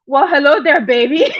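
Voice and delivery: lightly mimicked troll greeting; troll imitation. Imitating the troll who greeted her as Lady Nika, mild mock voice. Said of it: "because of the way that troll, Lady Nika, talks".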